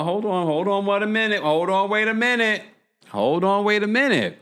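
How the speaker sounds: calling a halt to her own stream of talk, up high; sudden hold on. Real, not acted. Hold on. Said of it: "stopping to go back".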